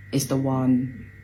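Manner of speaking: dropping to a whisper at the end; hushed dad. Retold or imitated. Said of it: "my dad was like".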